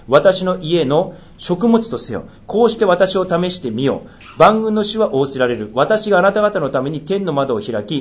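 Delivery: measured, solemn Bible reading; scripture reading. Acted. Pastor reading scripture to the church, solemn and measured. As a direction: read the law aloud to the congregation. Reads Malachi aloud.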